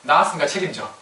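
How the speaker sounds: a hint of a sulky teenager talking back; mild teen retort. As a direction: toss it at the parents lightly. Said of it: "뭐라 그래요". (부모에게 대드는 사춘기 아이, 가볍게 흉내)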